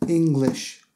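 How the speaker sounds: ENGLISH said alone in two clear beats; two-beat demo. Shown as a demonstration. Teacher showing English has two beats, two-beat demo. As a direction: say "English" by itself as two syllables. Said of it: "has two beats".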